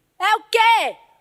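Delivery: curt, harsh, scolding snap, sharp and high. Speaker demonstrates how not to talk to her: shouting. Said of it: "falando para ela gritando".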